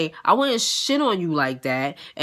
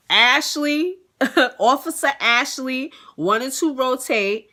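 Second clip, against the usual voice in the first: higher, drawn-out statement reading; mock recital; 5 semitones higher, slower than usual. Officer reciting her two-sentence statement, mock recital. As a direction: recite it slowly and high, amused.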